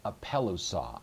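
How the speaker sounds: "apelusa" said alone, stressed on PEL; accent the third-last syllable of "apelusa", "pel"; antepenult stress. Shown as a demonstration. Teacher repeating the aorist form for students, antepenult stress. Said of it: "you are able to accent the antepenult".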